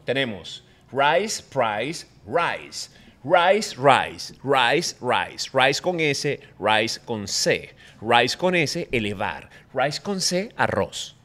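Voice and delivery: rice repeated slowly, each rice with a crisp R and long vowel; pronunciation drill. Shown as a demonstration. Guest drilling rice and price for the host. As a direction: drill the word rice again and again. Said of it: "la importancia de la pronunciación".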